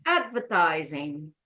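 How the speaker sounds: "Advertising" drawn out slowly, strongest on AD; slow, low demo of "Advertising", stressing AD; stress on first syllable. Shown as a demonstration. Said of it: "The first one".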